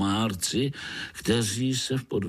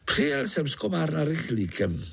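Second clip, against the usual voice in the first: high, quick grinning mosquito; jolly mosquito grinning at a spider; 7 semitones higher than usual. Acted. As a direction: tease the little spider, fast and high.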